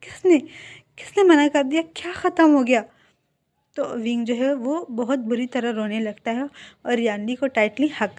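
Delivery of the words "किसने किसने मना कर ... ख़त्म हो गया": higher and louder, urgent questions; alarmed demanding. Acted. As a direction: press him hard for an answer. Yanli demands who rejected Wing. (ऊँची और तेज़ आवाज़ में बेचैन सवाल)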